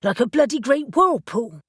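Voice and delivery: alarmed, pitch climbing a little; Reuben's worry creeping up into his voice; voice rising in alarm. Acted. Reuben balks at the whirlpool plan, rising alarm. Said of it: "his voice rising".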